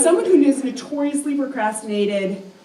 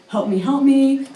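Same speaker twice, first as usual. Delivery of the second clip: panicked plea; 4 semitones higher, 3 dB louder than usual. Retold or imitated. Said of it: "my voice is getting higher and higher pitched".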